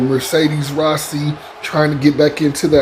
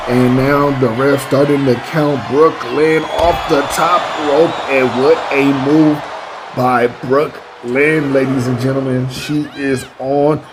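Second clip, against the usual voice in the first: lively ringside play-by-play; wrestling commentator. Acted. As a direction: call the match like a TV announcer. Live play-by-play of wrestling match.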